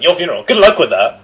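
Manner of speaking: hammed-up condescending stranger; mocking dismissive woman. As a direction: sneer it like a know-it-all adult. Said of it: "She's like".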